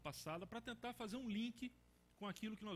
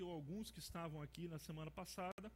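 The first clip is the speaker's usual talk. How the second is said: ordinary talk, nothing marked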